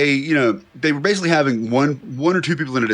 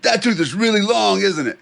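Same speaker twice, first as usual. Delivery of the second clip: mock amazed patient; 6 semitones higher than usual. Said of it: "He says".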